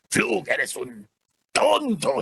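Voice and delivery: Black Hat. Shown as a demonstration. Black Hat scolding Flug, angry, hitting the word "tonto". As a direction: tell someone off in a put-on voice, last word drawn out and stressed. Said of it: "está regañando a Flug".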